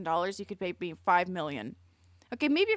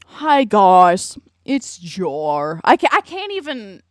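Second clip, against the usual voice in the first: mock Jar voice; 13 dB louder, slower than usual. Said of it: "Southern Jar?".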